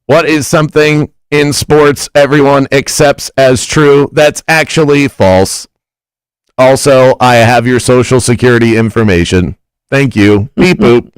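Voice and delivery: stiff robotic monotone reading. Shown as a demonstration. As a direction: read it like a machine. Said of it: "I'm gonna read it like a robot".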